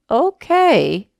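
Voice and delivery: imitating a baffled counter clerk; drawn-out, hesitant okay; puzzled agreement. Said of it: "she's looking around like".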